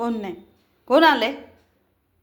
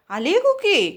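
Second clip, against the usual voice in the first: high, swooping question to a dog; playful and excited, pitch arching up; excited pet talk; 6 semitones higher, slower than usual. Real, not acted. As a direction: tease the dog with news of a visitor. Teasing dog about friend's arrival.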